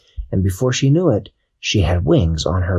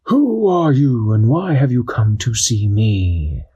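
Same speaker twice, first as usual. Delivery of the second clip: wise owl; 2 semitones higher, slower than usual. Acted. Owl to the visiting Aquanauts, slow owl voice. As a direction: ask it like a grand old owl.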